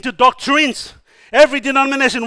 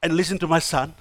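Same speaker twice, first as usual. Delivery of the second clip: low, soft request as God; quietly pleading divine reprimand; nice shut up; 6 semitones lower, 8 dB quieter than usual. Retold or imitated. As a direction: hush them politely, trailing down on please. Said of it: "to Peter in a nice way".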